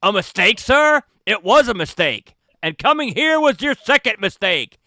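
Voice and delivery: high, loud mocking repeat; mock disbelief then a cold put-down; snooty scorn. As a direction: throw his words back at him. GM voices snooty passenger.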